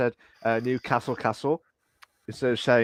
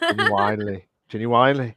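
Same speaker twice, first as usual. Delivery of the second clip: imitating Irish; 4 dB louder than usual. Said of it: "especially when he says genuinely".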